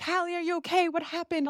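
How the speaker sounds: high, anxious questioning; family fussing anxiously over the fainted girl, high; worried family. Retold or imitated.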